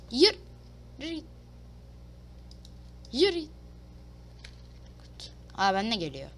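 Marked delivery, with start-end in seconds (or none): 3.1-3.5 impatient order. Real, not acted. Gamer pushing his character to walk, impatient. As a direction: shove the words out impatiently.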